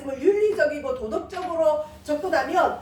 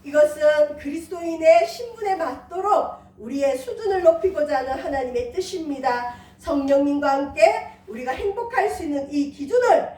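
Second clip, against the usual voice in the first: closing prayer. Acted. Pastor praying over the congregation in a steady prayer voice. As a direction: pray it over the church, measured.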